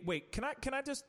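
usual speaking voice

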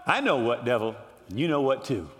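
knowing aside. Acted. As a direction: pitch dropped low after shouting. Sudden drop after shouted taunt.

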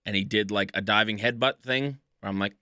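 talking with food in mouth; mouth full. Real, not acted. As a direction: talk through a mouthful of food. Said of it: "I'm eating currently".

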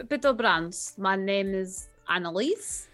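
usual speaking voice

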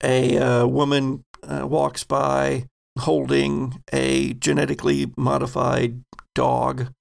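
measured scene-setting, pausing between phrases; game master narration. Acted. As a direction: set the scene for the players unhurriedly.

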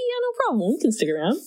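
light Boston fan voice; easygoing Boston local, lightly done; Boston accent. Retold or imitated. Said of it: "I won't try and do a Boston accent".

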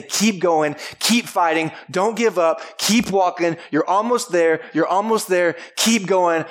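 rising, insistent encouragement; rallying cheer. Retold or imitated. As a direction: push them to keep walking. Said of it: "they're the ones that say".

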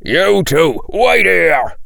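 high-pitched urgent shout in character. A narrator's reading. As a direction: shout an order to stay put. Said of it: "Hagrid shouted".

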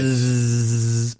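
buzzing like a fly. Pretend. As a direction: buzz like a housefly. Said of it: "That was me doing an impression of a fly".

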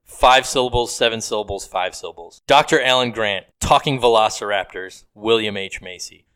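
measured haiku recital, pausing between lines; hushed sparse haiku. Acted. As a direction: read it like a poem. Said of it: "Here's a haiku".

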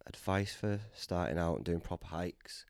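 soft whisper to himself; whispered musing. Real, not acted. Rereading a listener's question, whispered. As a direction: muse over the question in a whisper.

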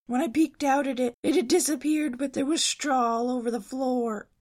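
high, loud panicked rush; Shaggy scared out of his wits; frightened Shaggy. A narrator's reading. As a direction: spill the ghost story in a fright. Shaggy frantically retelling the scarecrow.

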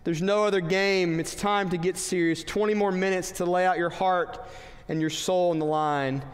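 a hint of a stern coach rallying the team; coach impression. Coach rallying a losing team at halftime, mildly stern. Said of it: "my best Michael Knapp impression".

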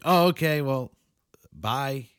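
awkward brush-off. Retold or imitated.

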